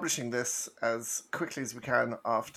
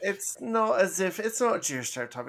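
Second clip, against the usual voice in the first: Watto voice; 5 semitones higher, 5 dB louder than usual. Acted. Mock protest in Watto voice.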